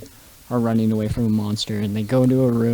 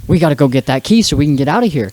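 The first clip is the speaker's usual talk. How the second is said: fast, louder retold urging; mock urgency; 3 semitones higher, 5 dB louder, faster than usual. Retelling Shaggy's escape from the monster, mock urgent. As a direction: rush the plan out.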